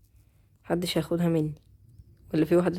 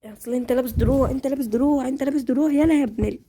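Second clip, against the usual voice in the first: frustrated complaint; 6 semitones higher, 3 dB louder than usual. Real, not acted. Frustrated fighting an armored player.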